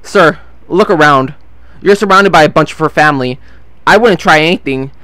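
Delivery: measured, retold calm authority; calm warning. Boss warns a surrounded drunk man, calmly. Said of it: "Mike says calmly".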